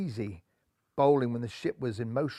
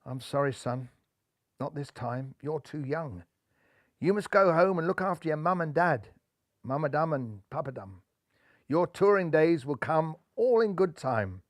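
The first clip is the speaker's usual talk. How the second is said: put-on soft, kindly skipper letting the boy down; gentle refusal; 3 dB quieter than usual. Skipper gently telling young Rajbun he cannot come, soft and kind. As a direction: quietly let him down easy.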